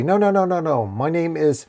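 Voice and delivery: high, hurried string of denials; surprised protest. A narrator's reading. Surprised dork correcting the wizard, startled protest. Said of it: "a surprised dork say".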